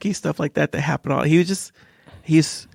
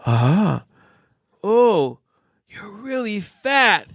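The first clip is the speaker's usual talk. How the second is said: put-on blunt child; 8 semitones higher, much slower than usual. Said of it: "he said".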